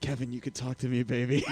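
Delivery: hushed, half-laughing murmur; imitated whisper. Host retells coaxing the silent guard, hushed and amused. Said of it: "who finally whispered in your ear".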